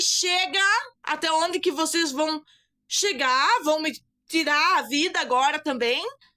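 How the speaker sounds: contained, held-in exclamatory outcry. Retelling a past protest against attacks: reenacting own shout. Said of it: "E quando eu gritei".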